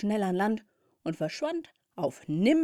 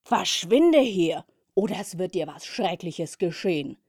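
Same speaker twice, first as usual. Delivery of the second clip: shouting; 6 dB louder than usual. Acted. Bumblebee shouts a warning at the cat, loud. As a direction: yell the threat at the cat. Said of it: "rief die Hummel".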